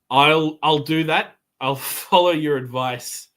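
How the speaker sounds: slow, reluctant groan of agreement. Acted. Kane giving in to the voice's warning, groaning reluctance. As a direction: drag the words out, giving in. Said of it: "gonna groan and kind of".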